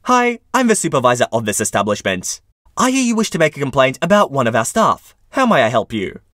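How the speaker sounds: a hint of sweet customer-service politeness; lightly voiced polite cashier; retail voice. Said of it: "smiled in my best retail voice I had".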